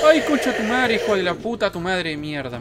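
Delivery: screaming curses after a jump scare; startled angry shout. Real, not acted. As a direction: yell out in shock and rage. Jump scare, swearing at monster.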